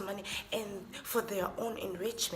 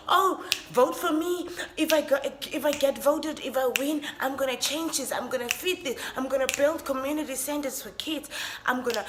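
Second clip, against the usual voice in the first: a hint of a campaigning politician, louder; hammed-up campaign promises, louder; mocking politician; 4 semitones higher, 5 dB louder than usual. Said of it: "The people that say".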